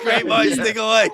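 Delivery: laughing loudly through the words. Real, not acted. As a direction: say it while cracking up at the coincidence. Both looked up the same thing.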